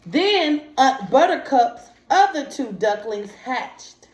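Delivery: lively read-aloud, pitch lifting on the story lines; storybook reading. Acted. Teacher reading a picture book aloud to young students. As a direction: read the story to the children with a little life.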